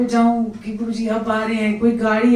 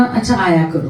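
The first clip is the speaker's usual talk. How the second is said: lovingly; 6 semitones lower than usual. Retold or imitated. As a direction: say it tenderly, like a blessing from a guru. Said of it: "बड़े प्यार से".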